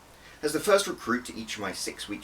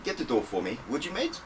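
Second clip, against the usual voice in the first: ordering; 6 semitones higher than usual. Acted. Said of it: "and ordered".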